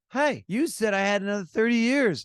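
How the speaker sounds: high, loud acted complaint; mock indignation. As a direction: confront God, hammed-up and affronted. Joke woman complains to God.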